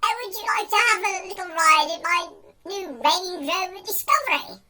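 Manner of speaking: put-on posh gent's accent. Man offering a Range Rover ride, posh accent. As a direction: coax her in a mock posh accent. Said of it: "using my posh accent for this one".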